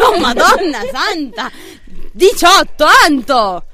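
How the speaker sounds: laughing. Real, not acted. Laughing fit over mistake.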